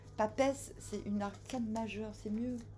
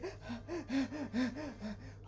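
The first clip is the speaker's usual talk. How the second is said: breathless gasp; 4 dB quieter than usual. Acted. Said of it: "il est essoufflé".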